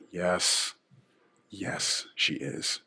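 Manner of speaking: whispered confirmation; whispered aside. Real, not acted.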